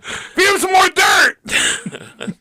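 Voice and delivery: gruff snap. Pretend. Gruff husband brushing off.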